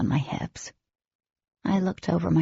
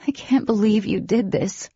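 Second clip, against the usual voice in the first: higher, stunned disbelief; amazed; 5 semitones higher than usual. A narrator's reading. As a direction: say it in awe. Stunned heroine voiced.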